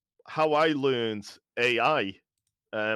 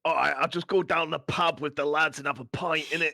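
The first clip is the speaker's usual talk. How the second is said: put-on British pub-lad accent; mock British; 3 semitones higher, 4 dB louder than usual. Acting a caricature British pub-goer.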